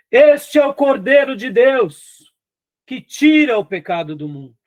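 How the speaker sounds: put-on booming preacher voice, loud and high. Retelling how Spurgeon spoke from a church pulpit, the speaker imitates his booming voice. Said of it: "com voz, um vozeirão".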